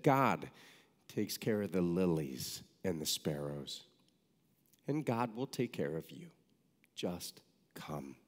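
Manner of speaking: put-on calmly reassure, as an old nun might; gentle retold reassurance. Mother Teresa to student worried about food, gentle reassurance.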